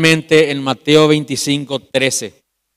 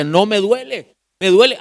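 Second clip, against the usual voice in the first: retold pain; 5 semitones higher than usual. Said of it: "le decía".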